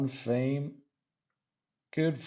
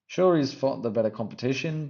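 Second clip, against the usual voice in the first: emphatic retake; 4 semitones higher, 5 dB louder, faster than usual. Real, not acted. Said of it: "Man, I can't even speak".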